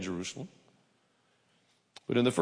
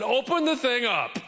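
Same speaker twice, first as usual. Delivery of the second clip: higher, breezy, offhand command; casual Jesus; 10 semitones higher than usual. Retold or imitated. Jesus tells them to open the tomb, breezy and casual. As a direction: toss it off like it's no big deal. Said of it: "Jesus just rolled up and said".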